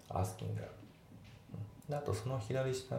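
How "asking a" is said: "asking a" joined smoothly, g gliding into a; linked sounds. Shown as a demonstration. Teacher repeating the correct take, linked "asking a". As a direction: say "asking a" as one word. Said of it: "リンキングで".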